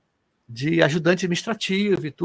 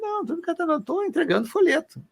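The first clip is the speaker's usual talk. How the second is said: much higher, put-on voice for his past self; explaining to passersby that he is only handing out flyers, much higher; retelling his own reply; 12 semitones higher than usual. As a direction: play it like an embarrassed, defensive correction, pitched high. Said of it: "Eu falei".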